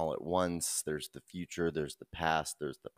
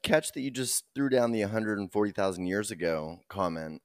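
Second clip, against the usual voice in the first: numb mouth; 3 semitones higher, 5 dB louder than usual. Real, not acted. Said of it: "my entire mouth is numb".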